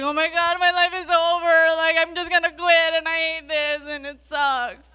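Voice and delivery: mock high, loud sobbing and wailing in despair. Speaker retells seeing a bad grade in nursing school; imitating themself crying. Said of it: "that's what I looked like and sounded like".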